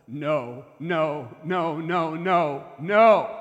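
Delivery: escalating denial. Retold or imitated. Accused coach denying to the investigator, building to a shout. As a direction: start almost silent, then build each no until you're yelling.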